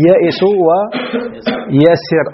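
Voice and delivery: "يئس ويسر" spoken slowly, long "yaa" opening each word; as transmitted from Arabs. Shown as a demonstration. Teacher showing students the Arab form, slow careful pronunciation. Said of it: "هكذا نقل عن العرب".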